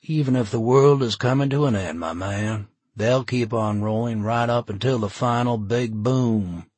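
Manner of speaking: amused hippie, grinning; laid-back hippie. Acted. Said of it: "Jim smiled".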